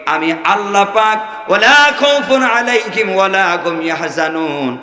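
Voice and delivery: rousing waz-style oratory with long melodic cadences; fervent preaching. Real, not acted. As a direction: preach to a crowd, drawing out phrase endings.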